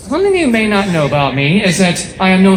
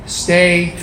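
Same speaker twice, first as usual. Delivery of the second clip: chilled-out mantra. Acted. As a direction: draw it out like a laid-back mantra. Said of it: "I follow a mantra".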